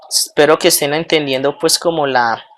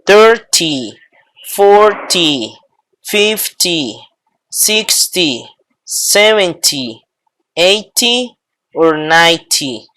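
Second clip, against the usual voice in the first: Thirty stressed at the start, not at the end; first syllable stressed in each tens word; slower than usual. Shown as a demonstration. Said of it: "no se hace el acento al final, sino al principio".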